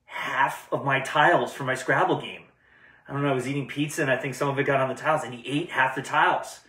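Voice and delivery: a friend calling late at night in a light put-on panic; mock panic. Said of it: "I got a panicked phone call".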